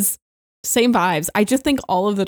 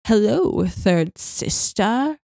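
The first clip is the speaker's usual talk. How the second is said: Grand Inquisitor line; much slower than usual. Retold or imitated. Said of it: "the Grand Inquisitor walks dramatically into frame and he says".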